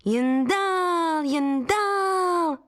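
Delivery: high, drawn-out barker's call; heron calling out. Acted. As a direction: call in the crowd like a fairground barker. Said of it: "vyvolávala volavka". (volavka vysoko a protahovaně láká davy dovnitř)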